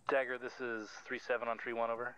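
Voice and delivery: loud radio call over static; crackly military radio. Real, not acted. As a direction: bark it into the handset.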